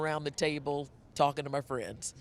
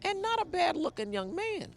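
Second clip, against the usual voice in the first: high playful compliment, then laugh; flirty tease. Real, not acted.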